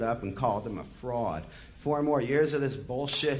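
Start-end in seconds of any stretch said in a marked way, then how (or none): 1.8-3.4 raised, angry roar at the crowd. Retold or imitated. Morrison to the crowd, a raised roar. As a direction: roar it out in disgust. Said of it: "he roared".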